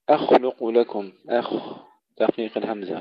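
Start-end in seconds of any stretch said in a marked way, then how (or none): 0.1-1.1 أخلق with thin hamza, thick still KH, light L; no bounce on the kha of أخلق; light hamza heavy kha. Shown as a demonstration. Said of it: "تفخيم الخاء مع سكونها دون قلقلة". (ترقيق الهمزة وتفخيم الخاء)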